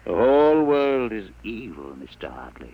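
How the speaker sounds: a hint of a zealot preaching; ominous proclamation. Fanatic warns the lawyer the world is evil, intoning. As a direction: intone it like a doom prophecy.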